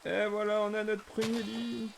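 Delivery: high, pleased ta-da; triumphant announcement. Real, not acted. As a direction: announce it high, starting loud. Announces the first bed proudly.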